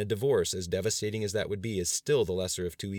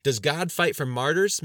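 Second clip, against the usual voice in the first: loud, high, drawn-out angry challenge; sharp, heated retort; snapped; 8 semitones higher, 9 dB louder, slower than usual. A narrator's reading. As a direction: snap the question, stretching it. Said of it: "Mister Markison snapped".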